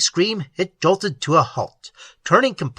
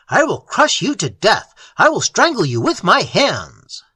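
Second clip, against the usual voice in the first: higher, louder desperate threat; groaning threat; 5 semitones higher, 4 dB louder than usual. Acted. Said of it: "Elliot groaned".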